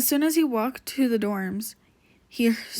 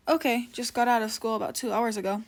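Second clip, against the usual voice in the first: deep husky voice. Acted. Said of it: "greeted by a deep, husky voice".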